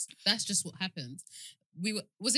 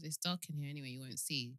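low, soft, understated brush-off; polite refusal; 4 semitones lower, 9 dB quieter than usual. Retold or imitated. Declining a caller's request to show herself, politely soft. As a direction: deflect gently, keeping it low and soft. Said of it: "This is me politely saying no".

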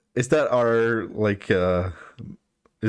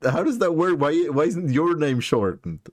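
higher, baffled disbelief; genuinely thrown, pitch up; surprised; 5 semitones higher than usual. Real, not acted. Learns others got shortened too.

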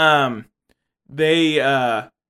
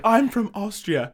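put-on higher, slow muddled Austrian accent; mock Austrian-Australian accent; 6 semitones higher, slower than usual. Terminator claiming his homeland, bad Austrian accent.

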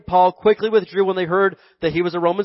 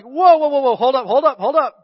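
alarmed whoa; 5 semitones higher than usual. Retold or imitated. Paul stopping his flogging.

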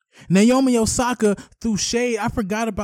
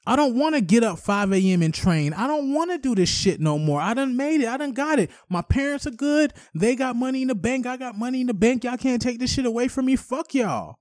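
mock Naomi Osaka; 5 semitones higher than usual. Podcast host imagines Naomi Osaka quitting, higher mocking voice. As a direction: toss it off like a rich young pro who's done. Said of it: "I feel like that's where she's at".

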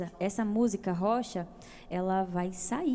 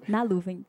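"Na Luvem" said low, as one name; deliberate name intonation; 4 semitones lower than usual. Real, not acted. Singer gives host her handle, deliberate intonation on "Na Luvem". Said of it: "legal a entonação que você deu".

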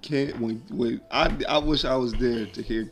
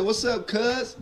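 cool dad greeting; 8 semitones higher, much slower than usual. Retold or imitated. Dad greeting daughter casually.

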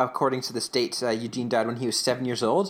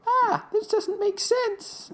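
very high, slow squeal of bewilderment; hammed-up panicked whine, far above usual pitch; mock freak-out; much slower than usual. Eugene not hearing Whit, hammed-up panicky wail. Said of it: "Eugene starts freaking out".

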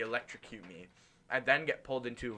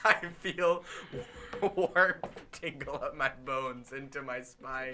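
laughing while reading. Real, not acted.

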